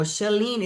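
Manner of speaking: "Charlene" said without an R; corrective pronunciation. Shown as a demonstration. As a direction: say "Charlene" as sha-LEEN, no R. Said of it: "It's not Charlene, Curtis. It's Shalene".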